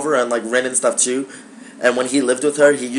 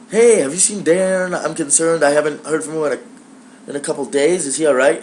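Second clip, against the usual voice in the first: higher-pitched put-on concern, easing down; fake sweet; 3 semitones higher than usual. Calling roommate's father, playing all sweet. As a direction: play the innocent, worried friend. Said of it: "I'm playing all sweet".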